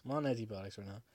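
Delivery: tipsy, loose slurred talk; a few drinks in, words sliding. Real, not acted. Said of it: "And I'm drinking right now".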